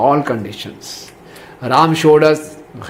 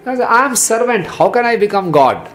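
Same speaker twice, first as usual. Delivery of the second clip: humble servant; 7 semitones higher than usual. Acted. Bharat voiced refusing throne.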